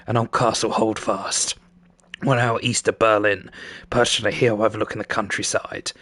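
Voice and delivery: lightly gruff cyberpunk narrator. Acted. Narrator talking about your life, in a gruff voice. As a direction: read it as a gruff storyteller. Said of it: "so I can do the gruff voice".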